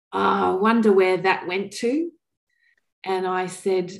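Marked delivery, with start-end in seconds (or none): 0.1-2.1 lightly imitated gravelly voice of a woman of seventy-five. Tearful artist looks into the unearthed box, imitated gravelly voice. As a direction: quote her with a slight gravelly edge. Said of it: "in a very gravelly voice".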